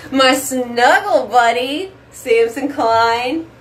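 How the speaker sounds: slow cooing pet voice; slow doting voice for the dog. Real, not acted. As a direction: coo slowly at your beloved dog. Baby talk to her dog.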